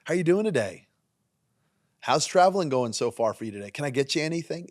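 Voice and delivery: bright welcoming mock bartender; friendly greeting. Shown as a demonstration. Pastor showing the right greeting, warm. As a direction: greet them like a welcome guest. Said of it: "How about".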